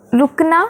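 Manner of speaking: रुकना with a quick short रु. Shown as a demonstration. Teacher showing kids a quick short रु. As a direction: clip the रु in रुकना short and fast. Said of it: "र जल्दी बोला गया ना".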